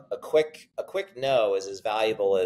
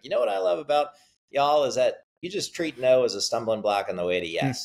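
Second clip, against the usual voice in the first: slight imitated accent, starting high and settling; light accent impression with a high-pitched opening; John Chambers' accent; 3 semitones higher than usual. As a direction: mimic a sales speaker's slight accent. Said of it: "little bit of an accent".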